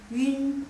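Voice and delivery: "Yun" with fronted, rounded u; teacher sounding out "Yun"; demonstrated reading. Shown as a demonstration. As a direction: say "Yun" held, u with two dots. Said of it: "U-nya ini sama Yun beda".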